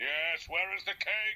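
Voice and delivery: very high, babyish cartoon giant baby voice. Showing a run of past roles in one minute: giant baby voice. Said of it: "The giant baby from Reginald the Giant Baby".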